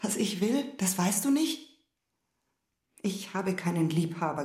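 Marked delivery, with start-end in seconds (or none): 0.0-1.7 empört. Acted. Empörte Gegenfrage im Ehestreit.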